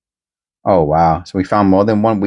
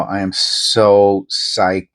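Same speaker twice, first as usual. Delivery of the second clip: drawn-out thrill; much slower than usual. Real, not acted. Thrilled about the find.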